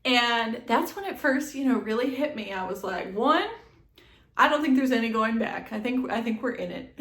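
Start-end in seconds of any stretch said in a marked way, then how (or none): 3.1-6.9 determined pep talk. Retold or imitated. Self pep talk in labor.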